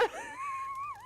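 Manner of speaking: high squeal of laughter. Real, not acted. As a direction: crack up laughing. Laughing at own story.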